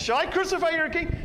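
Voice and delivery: a final straining appeal over the mob; high, loud last-ditch question, crucify stretched; last-chance plea. Acted. One more chance.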